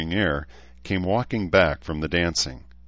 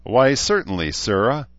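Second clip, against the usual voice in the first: mock courtly; 6 semitones higher, 5 dB louder than usual. A narrator's reading. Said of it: "Morgan replied".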